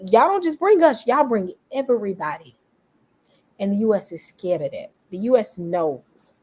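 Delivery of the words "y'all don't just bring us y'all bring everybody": mock protest. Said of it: "Israel is getting ready to say".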